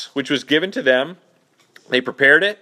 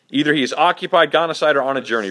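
quick recap; faster than usual. Shown as a demonstration. Teacher quickly rereading the verse to the class, fast. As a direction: rattle off "Either he is occupied, gone aside, or on a journey" fast. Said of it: "What does yours say for "gone aside".

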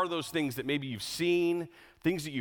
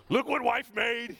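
proud excited; 10 semitones higher, slower than usual. Retold or imitated.

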